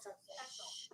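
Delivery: unvoiced shush to quiet the room; hush. Real, not acted. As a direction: hiss the class into silence. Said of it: "hushing the class".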